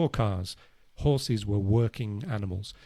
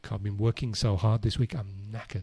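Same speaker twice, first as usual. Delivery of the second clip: worn-out groan; 3 dB quieter than usual. Retold or imitated.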